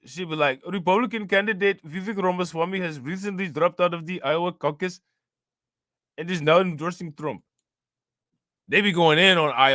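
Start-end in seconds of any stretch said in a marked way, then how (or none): 0.7-7.4 light mock of the ION anchor's heavy accent, slightly higher; a touch of the news lady's accent, read like a headline; imitating ION anchor. Mimicking the ION news anchor for viewers, light accent. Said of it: "That lady does have a heavy accent".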